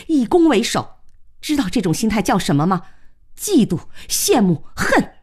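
pent-up resentment poured out point by point; venting anger. Acted. Woman accusing man of feeling inferior, venting anger. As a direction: lay into him with mounting indignation. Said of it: "把这些天的怒气、怨气一并发了出来".

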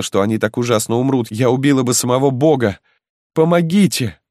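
high, pleading, tearful voice throughout; a mother raving with grief and terror; anguished, begging voice; desperate mother's lament. Acted. Mother begs crowd, children burning.

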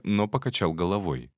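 ordinary delivery

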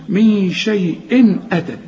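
شيء أتت with short clear "in" before the hamza; no nasal hold after شيء. Shown as a demonstration. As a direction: hum من, then join شيء to أتت unhummed. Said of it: "ما تغنش".

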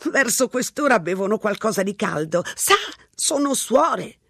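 put-on a rambling old lady, unbothered; old woman voice. A narrator's reading. Old woman at the payphone chatting, high and unhurried. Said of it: "ribatté la vecchia".

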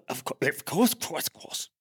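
soft, fading to a whisper; stammered, dwindling murmur; hushed assent. Acted. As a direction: breathe out your eager agreement. Priest assents tenderly to his beloved.

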